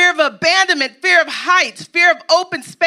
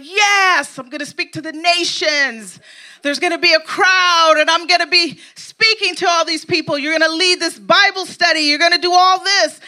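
mock excitement; 4 semitones higher than usual. Preacher playing a believer thrilled by a prophecy, higher excited gush. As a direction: gush like you just got a prophetic word. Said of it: "You're all like".

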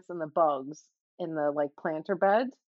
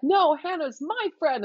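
put-on possessive kid; 9 semitones higher, 4 dB louder than usual. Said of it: "she's like".

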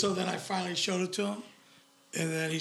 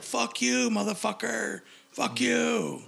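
retold defiance; 4 semitones higher, much slower than usual. Retold defiant quarrel with aggressive cop.

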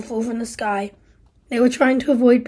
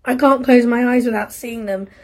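louder, bitter reproach; guilt and rebuke; 5 dB louder than usual. Acted. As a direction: turn the guilt on her. Steve confesses guilt, then rebukes Isla.

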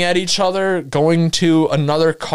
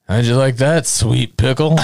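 put-on a lower, shouted drunken taunt; drunk man's taunt; 4 semitones lower than usual. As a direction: bellow it like a sloppy drunk mocking them. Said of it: "and I quote".

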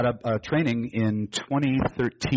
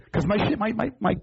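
laughing; 10 semitones higher than usual. Real, not acted. Laughing while explaining.

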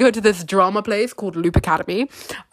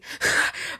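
awkward breathy laugh; 5 dB quieter than usual. Real, not acted. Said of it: "did you hear that laugh of mine".

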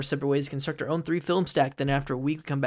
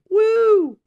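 excited whoop; 9 dB louder than usual. Real, not acted. Celebrating free park pass.

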